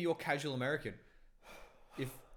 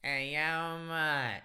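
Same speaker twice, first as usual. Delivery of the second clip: loud, higher-pitched bogan greeting; bogan Australian accent; 4 semitones higher, 5 dB louder, much slower than usual. Acted. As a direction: call out in a very Aussie accent. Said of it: "the Australian accent, the very Aussie".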